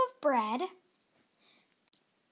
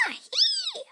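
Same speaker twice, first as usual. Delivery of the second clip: very high, louder chirpy ant; 7 dB louder than usual. Acted. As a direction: say goodbye like a tiny ant. Ant corrects its gender.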